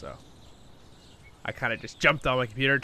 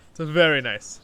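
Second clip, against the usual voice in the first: louder, higher, stress on very; enthusiastic; 4 semitones higher, 9 dB louder than usual. Shown as a demonstration. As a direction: lift it up and sell "very nice". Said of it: "repeated with more emphasis".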